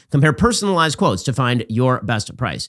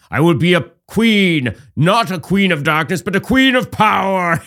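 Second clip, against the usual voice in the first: slow, higher, grand elven queen voice, hammed up; Galadriel; 5 semitones higher, 4 dB louder, slower than usual. Mocking Harris as a tempted queen, grand and slow. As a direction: play the tempted elf queen with mock majesty. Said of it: "She's like Galadriel from Lord of the Rings".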